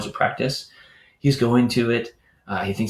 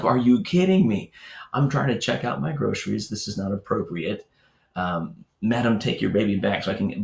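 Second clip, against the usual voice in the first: mock freak-out. Lieutenant fuming at the cashier, mock exasperated. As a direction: play the lieutenant mildly losing it in line. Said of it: "he's freaking out at this".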